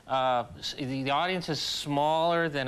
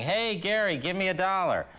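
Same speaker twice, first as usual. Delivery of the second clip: imitated passers-by; 5 semitones higher than usual. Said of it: "People going".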